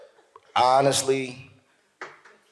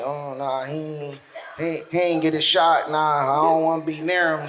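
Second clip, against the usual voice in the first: vaccinated person shunning; 5 semitones lower than usual. Retold or imitated.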